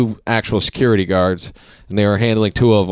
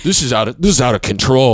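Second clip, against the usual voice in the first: mock angry; 4 semitones higher than usual. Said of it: "the guy was so mad".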